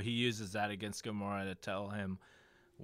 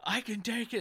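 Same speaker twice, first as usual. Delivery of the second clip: high, hammed-up boast; a lightly voiced tough guy; mock Drax; 10 semitones higher than usual. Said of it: "Drax is like".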